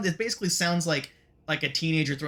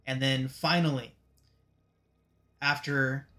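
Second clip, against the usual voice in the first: hushed, measured scene setting; game master narration; 4 dB quieter than usual. A narrator's reading. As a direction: set an ominous scene, unhurried.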